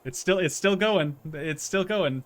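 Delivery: put-on a silly British accent, said with gusto; British accent, mocked up for fun. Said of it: "One for our British viewers there".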